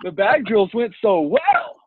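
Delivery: laughing through mock panic. Real, not acted. Laughs retelling his panic.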